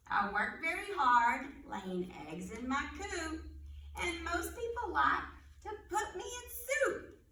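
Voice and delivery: put-on riddle read aloud for little kids; reading to children. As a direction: read it like storytime. Reads animal riddles to children.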